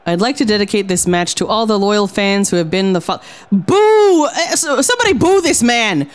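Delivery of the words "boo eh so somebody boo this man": higher, sneering taunt at the crowd; heel wrestler promo. Acted. Nurse cutting a promo on her rival's fans, sneering. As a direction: jeer at the fans like a pro-wrestling villain.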